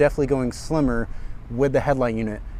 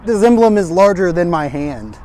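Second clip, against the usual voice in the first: amused disbelief; 5 semitones higher, 7 dB louder than usual. Real, not acted. Showing emblem against his hand.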